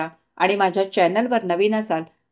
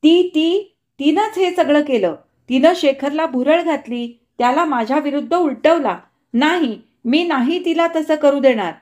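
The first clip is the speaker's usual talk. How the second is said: high, loud crazed screaming; screaming madly; 5 semitones higher, 4 dB louder than usual. Acted. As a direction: shriek it like a woman out of her mind. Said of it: "Pushpa वेड्यासारखी किंचाळत होती".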